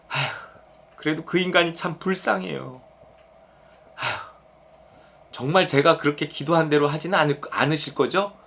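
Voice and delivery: soft, reluctant relenting with sighs; sigh, then quietly back down; acted sighing pity. Preacher voices a believer pitying the enemy after praying, sighing.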